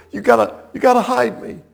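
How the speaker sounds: high, pleading mock panic; acted terror. Fleeing commander begging Jael for shelter, acted terror. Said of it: "So he's terrified".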